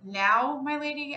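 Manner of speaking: quick unthinking reply; blurted answer. A narrator's reading. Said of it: "I answered without thinking".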